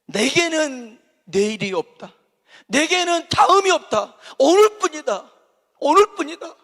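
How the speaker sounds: high, loud, intense declaration; urgent resolve. Retold or imitated. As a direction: say it as if today is the only chance. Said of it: "이 바디메오는요".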